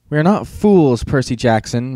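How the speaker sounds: loom over him with the charge; menacing accusation. Acted. Monster teacher threatens Percy.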